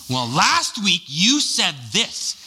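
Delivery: slow, put-on voice changing the subject; mock husband deflecting. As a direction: sidestep the argument with a sly dodge. Husband deflecting wife in argument.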